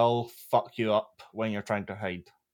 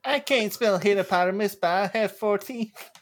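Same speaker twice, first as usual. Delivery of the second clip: laughing mock voice; 8 semitones higher than usual. Mocking Brenda while laughing.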